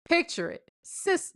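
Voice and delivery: high-pitched sitcom storyteller impression; Sophia from Golden Girls. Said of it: "Sophia from ... Golden Girls".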